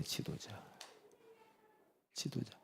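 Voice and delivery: barely voiced whisper; whispered word. Preacher whispering the word to the hall.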